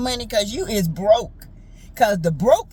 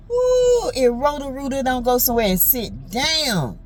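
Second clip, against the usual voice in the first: Aunt Ann voice; 2 semitones higher than usual. Retold or imitated. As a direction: scold like a sassy old aunt. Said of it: "like in my Aunt Ann voice".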